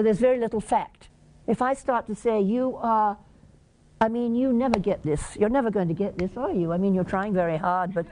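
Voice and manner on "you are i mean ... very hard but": sarcastic. Shown as a demonstration. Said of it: "that's sarcasm".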